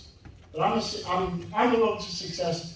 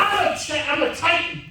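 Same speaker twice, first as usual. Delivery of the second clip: booming motivational speech; 5 semitones higher than usual. Shown as a demonstration. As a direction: call it out like a coach. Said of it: "repeat after me".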